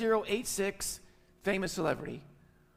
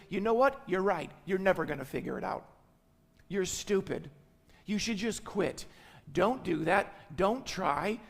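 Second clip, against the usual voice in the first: mock harsh parent putting a child down; quick, cutting lines, lightly acted; belittling parent. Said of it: "Some parents talk like that".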